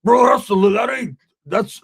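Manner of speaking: high, loud cut-off objection; exasperated protest. Retold or imitated. Sick friend protests to the narrator, loud and exasperated. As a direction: blurt it out, offended. Roach protesting his gut pain.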